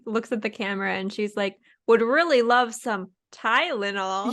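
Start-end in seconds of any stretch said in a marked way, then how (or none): 1.9-4.3 drawn-out, lilting plug; slow, pointed pitch for the sponsor; mock product plug. Contestant angling for medication from sponsors, mock product plug. Mock plea turned to camera.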